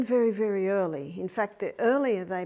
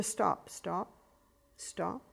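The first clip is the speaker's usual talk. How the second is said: soft firm stop; 2 semitones lower, 7 dB quieter, much slower than usual. Shown as a demonstration.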